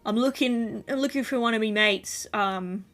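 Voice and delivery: a big rough bloke asking after his mate; hearty dragonborn calling out. Acted. GM voices a loud dragonborn.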